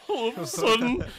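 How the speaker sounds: high, loud words squeezed out through laughter; can't get the words out for laughing. Real, not acted. Friend retelling a film scene, cracking up.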